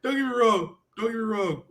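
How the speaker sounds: holding back a laugh; trying not to crack up; stifled giggles. Real, not acted. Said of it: "I'm trying not to laugh right now".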